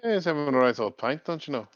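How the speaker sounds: light Irish lilt, cheery; a touch of Irish pub charm; Irish accent. Acted. Connor bragging about his pint, light Irish accent. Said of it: "do the the accent".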